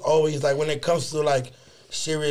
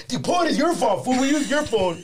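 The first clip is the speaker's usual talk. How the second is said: joking tease; 6 semitones higher than usual. Retold or imitated. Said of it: "the only one that's joking is Jakarta".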